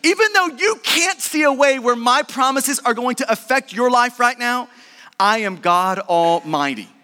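God reminding Abraham who he is. Acted. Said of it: "reminding Abraham that".

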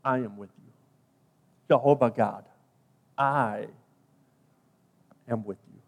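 low, soft and unhurried; low, hushed divine assurance; God's reply. Acted. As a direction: speak as God, quiet and grave, with long pauses. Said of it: "God's response was simply".

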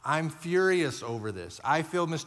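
loud, slow, heated honest prayer; angry prayer. Shown as a demonstration. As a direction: let the anger out to God. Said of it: "you see what I'm saying that way".

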